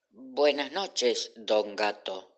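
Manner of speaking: slow, timid greeting; mild trembling. Acted. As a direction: greet the cat slowly, still a little scared. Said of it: "aunque todavía temblaba un poco".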